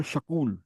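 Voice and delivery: "শাকুল" with an inserted vowel after sh, Punjabi style; light Punjabi "শাকুল". Shown as a demonstration. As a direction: say "শাকুল" instead of school, vowel between s and k. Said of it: "তারা বলে শাকুল".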